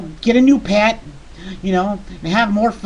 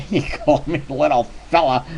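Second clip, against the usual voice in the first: lower, tickled giggle through the words; giggling; 6 semitones lower than usual. Acted. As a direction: laugh while you say it. Giggles at the nickname.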